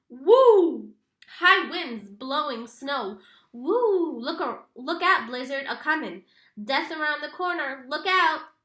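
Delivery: loud hammed-up howl of a storm warning; mock blizzard warning. A narrator's reading. Teasing friend hams up a blizzard warning to Kenny, loud and spooky. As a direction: boom it out like a spooky weatherman.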